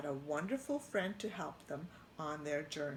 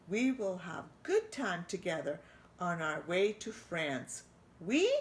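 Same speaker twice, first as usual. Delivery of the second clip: delighted chef. Acted. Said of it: "he asked delightfully".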